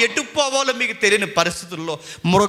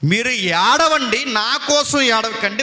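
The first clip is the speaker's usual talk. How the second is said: louder slow repeat; 2 semitones higher, 4 dB louder, slower than usual. Shown as a demonstration. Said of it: "మళ్ళీ చెప్తున్నాను".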